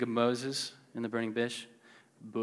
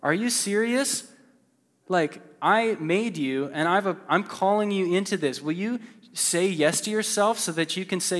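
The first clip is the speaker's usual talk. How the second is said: offended God; 4 semitones higher than usual. Retold or imitated. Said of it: "God's offended. He's like".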